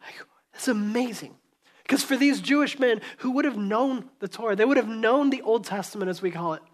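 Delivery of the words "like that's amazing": whisper. Real, not acted. Awed aside.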